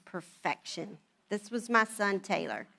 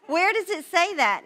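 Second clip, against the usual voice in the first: high, loud demand; incredulous challenge; 7 semitones higher, 5 dB louder than usual. Retold or imitated. Wife disputing husband's toilet paper rule, loudly incredulous. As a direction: challenge it loudly, pitch jumping up.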